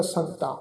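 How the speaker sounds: ਸੰਤਾਂ ending in nasal -aan; nasal long a. Shown as a demonstration. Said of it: "ਕੰਨਾਂ ਉੱਪਰ ਬਿੰਦੀ ਸਹਿਤ ਉਚਾਰਨ ਹੋਵੇਗਾ".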